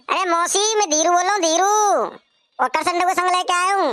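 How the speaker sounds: high-pitched call to the house. Acted. Dhiru telling auntie he has come, calling out. Visitor calls his name to auntie.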